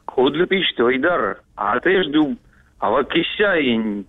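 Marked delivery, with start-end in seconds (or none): 0.1-2.4 Кудлы пишет said as reversed gibberish; backwards speech. Pretend. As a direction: read the phrase backwards, sound by sound. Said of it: "скажи вот наоборот".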